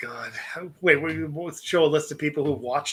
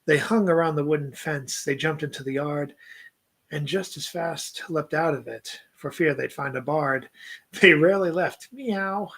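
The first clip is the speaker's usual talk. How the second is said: reads the poem aloud in a light put-on accent; lightly accented poetry recital to a podcast co-host; poem reading accent. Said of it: "I seem to read better when I do this accent".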